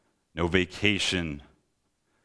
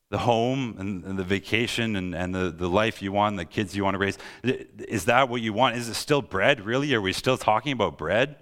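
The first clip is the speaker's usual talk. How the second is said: higher-pitched incredulous questioning; Jesus crying out; 4 semitones higher than usual. Acted. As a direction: press the questions in mounting exasperation. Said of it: "hear Jesus cry out".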